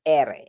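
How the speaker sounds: "R" said as "erre" with a bouncing trill; rolled Spanish R. Shown as a demonstration. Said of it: "it's multiple times".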